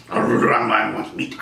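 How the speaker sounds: very slow, low dog-like plea; lightly voiced lion begging like a dog; lion begging for meat, slow and low; dumb hungry lion. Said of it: "the lion's like a dog".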